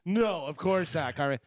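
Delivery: sarcastic. Retold or imitated. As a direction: stretch the words out with mock sincerity. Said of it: "like, sarcastically".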